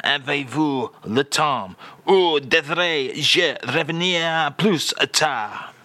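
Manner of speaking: slow, careful French phrase demo; slow French phrase read. Shown as a demonstration. The speaker reads out the French phrase of the day, slowly. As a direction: present it as a lesson phrase. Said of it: "So let's do it again".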